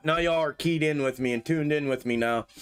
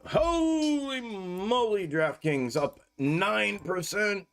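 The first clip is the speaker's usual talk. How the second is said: slow, drawn-out, higher holy moly; amazed exclamation; 5 semitones higher, much slower than usual. Real, not acted. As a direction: marvel at the jump, stretching it. Sees a stock jump.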